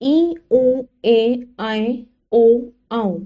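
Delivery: ई, उ, ए, ऐ, ओ, औ through nose and mouth together; nasalised vowels. Shown as a demonstration. Teacher demonstrating chandrabindu, ई to औ said as nasal vowels. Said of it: "ध्वनि नाक और मुंह दोनों से".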